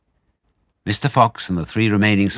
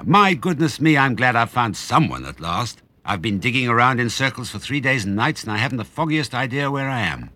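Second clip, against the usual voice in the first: relieved badger; 6 semitones higher than usual.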